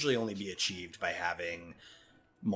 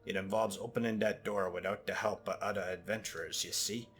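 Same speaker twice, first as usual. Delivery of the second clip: put-on Jamaican accent. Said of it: "slipping into, like, Jamaican".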